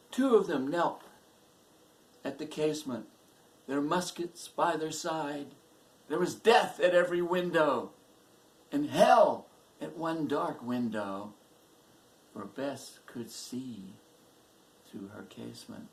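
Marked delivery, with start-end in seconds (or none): 0.1-11.3 raised, forceful storytelling; intense dramatic narration. A narrator's reading. Narrator on soldiers lying in wait, intense. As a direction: drive the menace home, high and loud.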